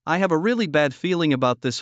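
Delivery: hesitant, understated dread; mildly uneasy narrated stammer. A narrator's reading. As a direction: break off on "I", pause, then restart. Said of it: "Fong Siki stammered".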